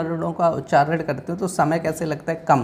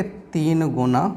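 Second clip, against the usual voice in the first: drawn out slowly, each word stretched; slow emphasis; much slower than usual. Shown as a demonstration. Teacher stressing the answer slowly to students. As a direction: spell it out slowly for the class. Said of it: "क्या लगे?".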